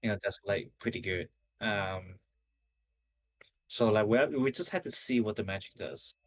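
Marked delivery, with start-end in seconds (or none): 3.7-6.1 slightly breathless talking; out of breath. Real, not acted. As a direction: speak a little winded. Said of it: "I'm kinda out of breath today".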